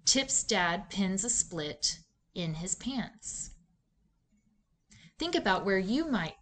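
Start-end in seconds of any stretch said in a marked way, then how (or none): 0.1-3.5 slow reading, clear pause between "split" and "in his pants"; group "Tip's dad pins a split", pause, then "in his pants"; phrased with pauses. Shown as a demonstration. Teacher showing students where to pause when reading, slow phrased demo. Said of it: "where I will pause or take breath".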